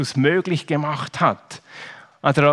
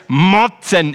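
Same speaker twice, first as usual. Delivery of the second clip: louder "motzen", falling; mock grumble; 5 dB louder than usual. Preacher repeats the boy's one-word answer, louder. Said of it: "Er hat gesagt".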